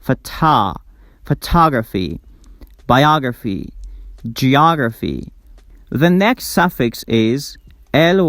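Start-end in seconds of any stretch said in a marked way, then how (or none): 0.0-5.3 phoTAHgraphy, biAHgraphy, geAHgraphy; stressed "ah" vowel. Shown as a demonstration. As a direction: open stressed AH before each "graphy". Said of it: "always pronounced like ah sound".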